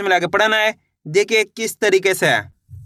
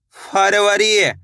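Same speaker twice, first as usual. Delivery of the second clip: slow blending; much slower than usual. Shown as a demonstration. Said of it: "blending letters slowly for pupils".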